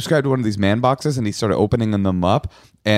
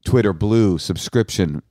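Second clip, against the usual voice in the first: slow pleading letter voice; much slower than usual. Retold or imitated. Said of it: "and saying".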